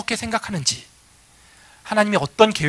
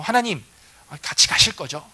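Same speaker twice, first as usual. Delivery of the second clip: sly coaxing. Acted. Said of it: "굉장히 능청스럽게".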